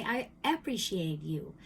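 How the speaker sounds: imitated Cuban accent of a dad. Imitating my dad saying thanks, Cuban accent. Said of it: "he had an accent like that".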